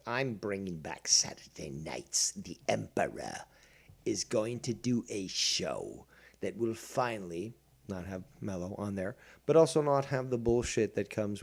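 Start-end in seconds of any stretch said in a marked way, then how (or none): 2.3-9.2 mock secret whisper. Grandly announcing the Emperor's show.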